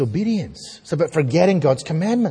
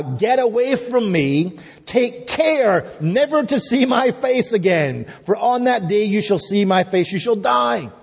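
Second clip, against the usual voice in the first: threatening Pharaoh; 5 semitones higher than usual. Acted. Pharaoh banishing Moses on pain of death, threatening. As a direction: deliver a stern royal warning, pitched high. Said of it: "when he threatens his life".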